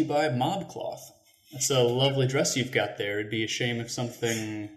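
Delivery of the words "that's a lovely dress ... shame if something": smiling menacing loan shark. Acted. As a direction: menace them sweetly, then breathe the threat. Mock threat in ad read.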